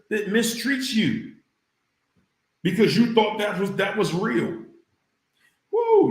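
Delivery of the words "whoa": high, loud mock whoa; sarcastic yelp of disbelief. Real, not acted. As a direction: scoff at how real it was. Sarcastic reaction to own point.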